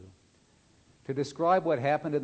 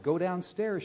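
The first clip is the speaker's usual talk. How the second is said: a sudden, slightly higher and louder blurt; 5 semitones higher, 4 dB louder than usual. A narrator's reading. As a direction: burst out with it in a hurry. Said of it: "she blurted".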